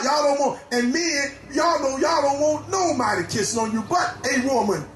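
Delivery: fervent preaching over music, rising to shouts. Real, not acted. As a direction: preach hard at the congregation, calling out. Preacher exhorting congregation.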